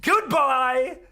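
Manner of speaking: high, loud furious shouting at an enemy; excited yelling. Real, not acted. Gamer screaming at rival player Nova to get out. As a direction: scream him off the map, full rage. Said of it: "I got a little excited there".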